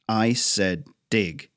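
slow, deliberate order; firm command. Acted. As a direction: leave no room for argument, slowly. Father orders boy.

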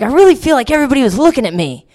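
high, fast self-conscious chatter. Retold or imitated. Girl in yellow pants at the festival, fast high chatter. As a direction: rush it out, pleased and flustered. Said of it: "and I was like".

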